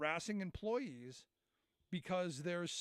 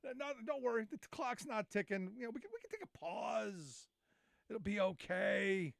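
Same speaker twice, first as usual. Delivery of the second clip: mock southern drawl. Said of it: "I really liked your southern accent drawl you was doing".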